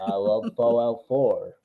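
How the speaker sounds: silky, very smooth, very deep voice. Imitating Noah's way of speaking: imitating Noah's smooth deep voice. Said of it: "the smoothest, deepest voice".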